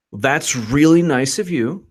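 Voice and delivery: slow, drawn-out mock gratitude; sarcastic. Real, not acted. Host reacting to Strzok's offer, sarcastic. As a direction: stretch it out with exaggerated appreciation.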